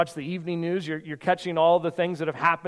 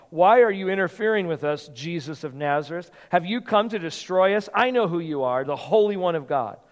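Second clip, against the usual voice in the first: mild demon cry; 4 dB louder than usual. Acted. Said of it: "cried out".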